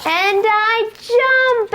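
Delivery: slow, high-pitched and bright; excited jump. Acted. Teacher cueing toddlers to jump, excited high call. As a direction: stretch it out high for the kids. Story climax, kids jump.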